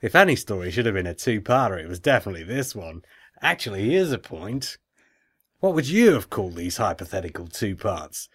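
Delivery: put-on amateur Australian accent, lilting line endings. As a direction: read it in a put-on Aussie accent. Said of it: "I'll go back to English now".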